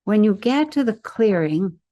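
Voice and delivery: measured guide's voice, pausing between instructions; guided imagery. Real, not acted. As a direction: lead the listener step by step through an imagined scene. Leads guided imagery into forest.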